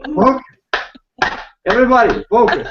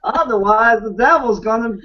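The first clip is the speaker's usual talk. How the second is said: put-on joking Southern Texan accent; 2 semitones higher than usual. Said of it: "when I try to be Texan".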